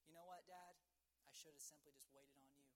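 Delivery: understated remorse, softening toward the end; mildly acted, halting shame; ashamed son. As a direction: imitate a boy owning up sheepishly. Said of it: "hung his head in shame".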